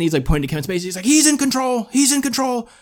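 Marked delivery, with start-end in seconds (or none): 1.0-2.7 high, urgent detective imitation; hammed-up alarmed movie cop; Morgan Freeman. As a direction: act out a tense warning, pitched way up. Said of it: "Morgan Freeman's like".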